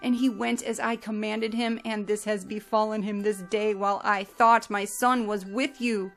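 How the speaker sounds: grieving lament. Acted. Yaakov lamenting Yosef before his sons, grieving lament. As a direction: mourn aloud, voice strained with loss. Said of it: "he cried out with a loud voice".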